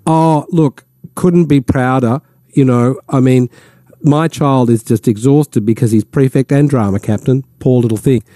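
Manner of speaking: mock-modest parental boasting, lightly done; humblebrag as complaint. Host imitating a bragging parent online, mock complaining. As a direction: pretend to grumble while showing off. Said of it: "this sort of couch it as a complaint".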